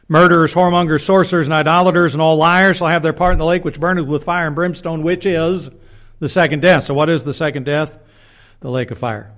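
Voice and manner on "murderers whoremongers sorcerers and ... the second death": emphatic pulpit reading of a verse; scripture reading. Acted. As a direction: read out the list firmly, driving through to the end. Reads scripture aloud to the congregation.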